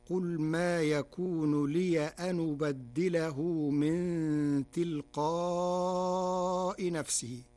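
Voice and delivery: "لي أن" as liya-n with the hamza dropped, slow; Warsh reading liya-n. Shown as a demonstration. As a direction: recite "لي أن" joined as liyanu with no glottal stop. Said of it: "بفتح ياء الإضافة ونقل حركة الهمز". ("لي أن" بفتح الياء ونقل حركة الهمز)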